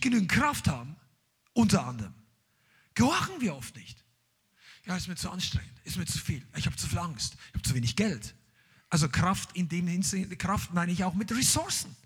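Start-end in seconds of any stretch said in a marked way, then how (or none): 4.9-8.3 mock whiny excuses. Imitating reluctant excuse-makers.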